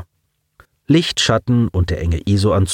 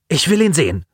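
almost euphoric; 7 semitones higher, faster than usual. A narrator's reading. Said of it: "forderte Simon beinahe schon euphorisch".

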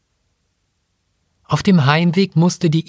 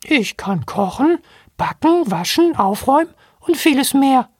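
much higher piping monkey voice; squeaky robot monkey; 13 semitones higher than usual. Acted. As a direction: chirp it like a tiny robot monkey. Robot monkey lists skills.

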